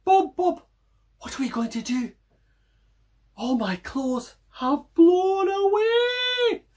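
high, loud panicky cry; panicked shout. Acted. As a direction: call out in alarm. Mac panics over lost clothes.

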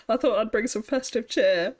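amused about the festive hat; laughing. Real, not acted. Streamer laughing with chat about her hat. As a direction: chuckle through the line.

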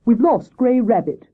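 a touch of nerves; nervous. Acted. Hare explains the loss to Wise Owl, mildly nervous. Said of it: "explained Hare nervously".

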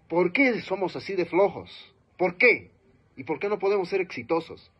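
commanding voice. Shown as a demonstration. Speaker demos voice control, loudly challenging the audience. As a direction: demand answers from the audience. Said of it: "voy dominando la voz".

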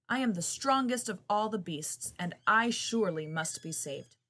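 loud, proud boast; lion's roar. Acted. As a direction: roar it like a lion. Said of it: "The lion roared".

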